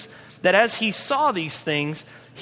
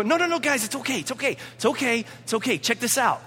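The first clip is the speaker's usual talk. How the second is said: higher, offhand reassurance; breezy, casual; 4 semitones higher, faster than usual. Retold or imitated. Imagined Jesus waving off the mourners, breezy. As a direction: wave off the fuss lightly. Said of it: "just come and go".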